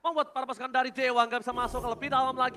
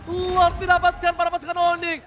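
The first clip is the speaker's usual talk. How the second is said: excited; 5 semitones higher, 3 dB louder than usual. Real, not acted. Caster hyped after teamfight.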